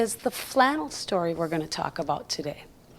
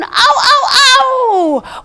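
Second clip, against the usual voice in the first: coyote yips; 11 semitones higher, 7 dB louder, slower than usual. Acted. Coyotes howling at the moon.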